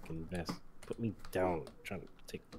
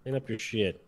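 angry yelling; 3 semitones higher, 10 dB louder than usual. Acted. Cop yelling at raccoon.

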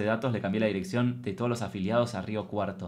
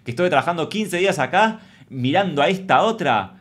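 louder indignant demand; angry demand; 3 semitones higher, 6 dB louder than usual. Retold or imitated. Comedian demanding her pay from the boss, indignant. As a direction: demand your pay, fed up. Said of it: "renuncié ahí mismo".

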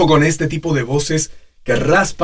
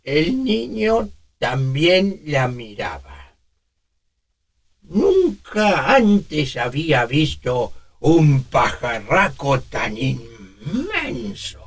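put-on slow, airy old man narrator; much slower than usual. Shown as a demonstration. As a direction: tell it slowly like an old man. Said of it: "se evidencia un escape hipotónico".

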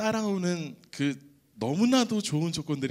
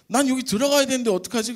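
high, fast, loud fretting; anxious self-quote at the border; worried plea; 9 semitones higher, 6 dB louder, faster than usual. Retold or imitated. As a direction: blurt it out in a panic, pitched up. Worried at customs, own quote.

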